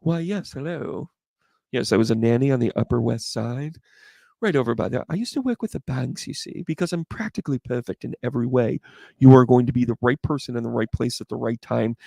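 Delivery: lightly voiced proper nanny; prim nanny act. Class act introducing herself as a nanny, lightly prim act. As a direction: put on a composed, practically perfect nanny. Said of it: "You're gonna be like".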